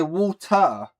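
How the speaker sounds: "water" with the T fully sounded. Shown as a demonstration. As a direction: pronounce the T clearly in "water". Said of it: "That's how you say it".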